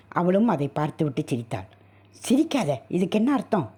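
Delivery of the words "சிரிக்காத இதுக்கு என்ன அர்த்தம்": high, sharp plea to stop laughing; agitated demand. Acted. Husband confronts his laughing wife, high agitated demand. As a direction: stop her laugh, then demand an answer.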